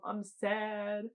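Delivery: usual speaking voice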